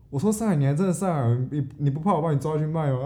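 joking auntie. Retold or imitated. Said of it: "她还在开玩笑".

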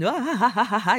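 hammed-up mocking laugh; mock laughter. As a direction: laugh at them teasingly. Imitates someone laughing at you.

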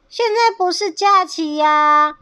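high, loud, drawn-out objection; protesting. A narrator's reading. 伙伴反驳鳄鱼. (拉高声音慢慢地反驳)

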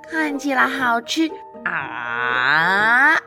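gasp, then slow drooling praise; hungry delight. Acted. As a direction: drool over the treat. Sees tasty chocolate.

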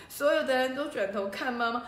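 usual speaking voice

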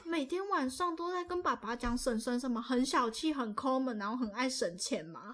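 put-on child innocently exposes mom to aunt; innocent act. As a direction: play the innocent kid snitching sweetly. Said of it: "我一脸无辜的转过去说".

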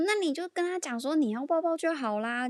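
high, loud mock best friend, laughing through it; imitating best friend. Retelling her best friend's advice, high and loud imitation. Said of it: "我闺蜜就说".

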